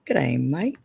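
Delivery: a lightly done, bad Australian accent; half-hearted mock Australian accent; terrible Aussie accent. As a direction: toss off a hammy Aussie greeting. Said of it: "semi-Aussie terrible accent I can do".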